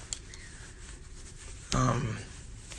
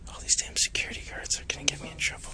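whispering; 5 dB quieter, much faster than usual. Real, not acted. Fearing security guards.

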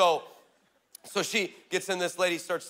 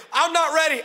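higher, louder plea through laughter; mock panic, laughing; 8 semitones higher, 5 dB louder than usual. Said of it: "Chris, say it again".

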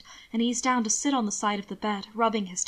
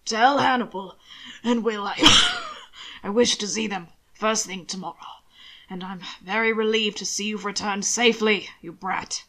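lightly raised master's voice, broken by a cough, easing to fond grumble; calling after someone. Acted. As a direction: call out instructions, then soften at the end. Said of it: "roused himself enough to call after him".

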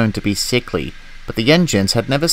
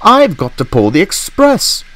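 crying out; 5 semitones higher, 4 dB louder than usual. Acted. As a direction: press the protest, dragging it out. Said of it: "Gordon cried".

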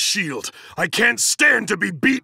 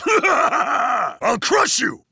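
laughing taunt; 2 semitones higher, much slower than usual. Acted. Fighter taunts mid-battle.

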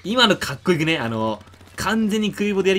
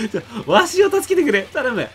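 put-on creaky wise old man; 7 semitones higher, 5 dB louder than usual.

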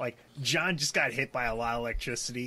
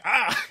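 higher, louder "ah" cry; mock yelp; 7 semitones higher, 5 dB louder than usual. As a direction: yelp as if knocked flying. Acted cry while being thrown back.

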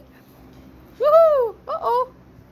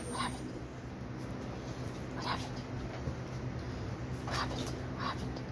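soft puppy voice; 16 dB quieter than usual. Retold or imitated. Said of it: "He's like".

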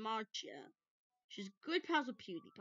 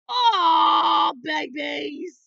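very loud, high delighted squeal; 6 semitones higher, 21 dB louder, much slower than usual. Real, not acted. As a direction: squeal over cute pets. Squealing at the pets.

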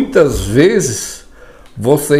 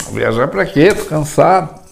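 grumpy passenger; 3 semitones higher than usual. Acted.

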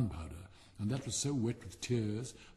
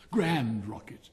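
slow, weighty, louder self-praise; proud correction; 3 semitones lower, 4 dB louder, slower than usual. Acted. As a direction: drag it out, puffed up with pride. Rocket corrects the insult proudly.

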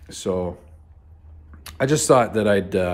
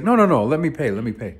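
much higher and louder, pressing no no no; insistent; 6 semitones higher, 6 dB louder, faster than usual. Retold or imitated. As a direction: insist eagerly on paying. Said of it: "And he's like".

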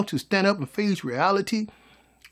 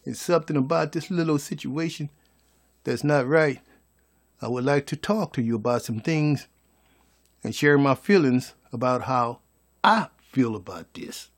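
calm request; 4 semitones lower, 3 dB quieter than usual. Shown as a demonstration. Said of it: "They don't know how to come and say".

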